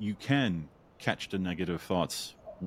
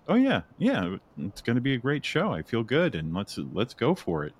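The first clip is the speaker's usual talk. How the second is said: excited self pep talk; 4 semitones higher than usual. Retold or imitated. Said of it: "I was like".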